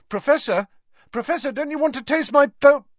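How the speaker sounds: high, loud desperate call after him; pleading shout down the corridor. Acted. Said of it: "called Harry desperately".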